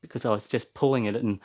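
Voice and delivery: panting between words; breathless after the climb; out of breath. Real, not acted. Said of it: "oh, sorry, I'm out of breath".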